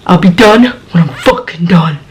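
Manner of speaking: understated imitation of an angry shout; retold angry shout. Roommate answers through bathroom door, understated mock shout. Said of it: "that's what she shouts out".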